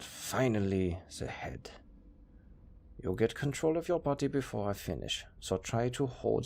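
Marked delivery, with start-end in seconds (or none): 1.2-1.7 whisper. Acted. Attaching the head last.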